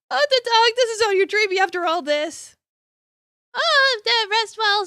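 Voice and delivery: high, loud bitter reproach; angry outburst. Acted. The date turns on Marn, high and loud with anger. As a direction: hurl the betrayal at him.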